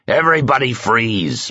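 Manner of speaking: bellowed. A narrator's reading. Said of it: "bellowed Chief Hans".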